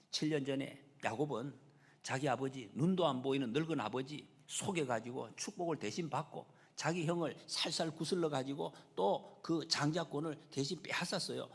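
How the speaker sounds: normal talking voice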